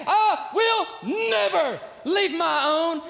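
loud, high, booming proclamation; God shouting. Pretend. Preacher to congregation, booming as God's shout. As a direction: thunder it down from heaven. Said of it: "He shouts to you today".

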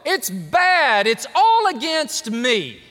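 high, loud, drawn-out wail of self-pity; preacher mock-wailing everything is against him; hyperbolic lament. Old father to his sons, mock wailing. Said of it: "Talking about hyperbole".

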